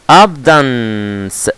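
ABUNDANCE squashed to AB-dans, drawn out slowly; wrong pronunciation. Shown as a demonstration. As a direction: say "abundance" slowly with the middle syllable missing. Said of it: "عشان في ناس بتنطقها".

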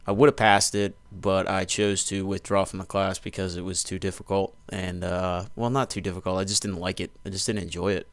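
talking with dip in the lip; lip full of dip. Real, not acted. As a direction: speak around a packed lip of dip. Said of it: "Sorry, spitting again".

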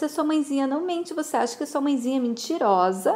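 put-on high, quick mother talking to her child; motherly coaxing. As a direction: coax a doubting child. Mother coaxing her doubting son.

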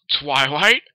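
lightly voiced surfer brother. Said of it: "Oh, surfer voice".

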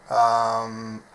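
ordinary delivery

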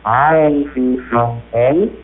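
machine voice asking in French. Shown as a demonstration. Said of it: "try a little French".

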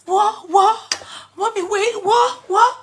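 mock confused son, laughing through. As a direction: keep asking what, baffled. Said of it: "That one will cover his face".

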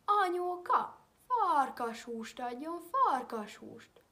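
put-on loud, high, slow children's yell. A narrator's reading. Children yell at the wolf to scare it off. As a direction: yell at the top of your lungs. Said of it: "torkuk szakadtából kiabálni".

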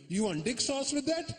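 put-on high, rising accented question; waiter's Asian accent. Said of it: "The guy goes to me".

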